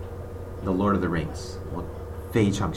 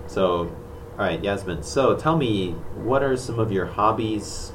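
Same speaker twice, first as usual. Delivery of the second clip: English speaker voice. Pretend. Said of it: "我变成讲英文的人".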